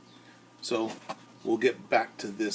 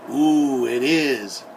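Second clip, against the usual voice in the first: put-on excited girl; 6 dB louder than usual. A narrator's reading. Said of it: "said Christina".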